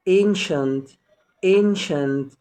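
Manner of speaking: "ancient" modelled twice with SH for the C. Shown as a demonstration. Teacher modelling a word for learners, C as SH in "ancient". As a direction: say "ancient" with a clear SH, pause, repeat. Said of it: "بتنطق شين".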